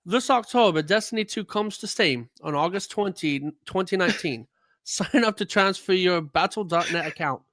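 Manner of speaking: mock Southern twang on a game announcement; put-on Southern accent. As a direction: play the promo like a Southern cowboy. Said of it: "Why are you doing accents?".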